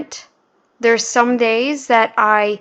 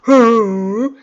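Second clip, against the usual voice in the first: imitated mic noise; 4 dB louder than usual. Shown as a demonstration. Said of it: "it stops, like".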